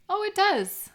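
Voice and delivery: light up as you see it; delighted surprise. Real, not acted. Friend seeing the bird's red cap through binoculars, delighted.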